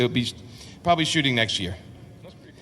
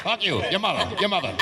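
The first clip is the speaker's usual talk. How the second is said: pull-string talking toy; 3 semitones higher than usual. Pretend. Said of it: "he pulled his string and he goes".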